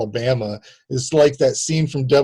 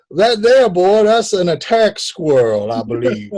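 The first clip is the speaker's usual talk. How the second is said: bad Southern accent; 4 semitones higher, 4 dB louder than usual. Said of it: "I'm gonna do my bad accent again".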